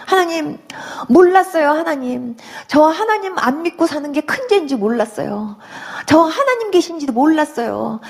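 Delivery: mild tearful repentance; retold weeping prayer. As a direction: confess through remembered tears. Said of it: "막 제가 막 울기 시작하는데".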